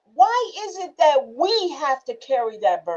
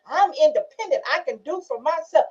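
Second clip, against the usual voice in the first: mock insistence; 3 semitones higher than usual. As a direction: mimic a defiant woman. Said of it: "we get mad if somebody don't admit".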